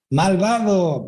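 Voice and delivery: put-on a boy shouting to test the echo; child calling out. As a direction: call out the word to the cave.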